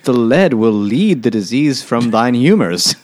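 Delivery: hammed-up archaic physician prescribing a cure; mock old-time doctor. Jokingly plays an old-time doctor.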